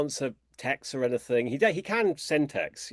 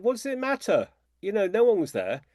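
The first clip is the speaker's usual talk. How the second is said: exasperated retort; 8 semitones higher than usual. Retold or imitated. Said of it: "And I said".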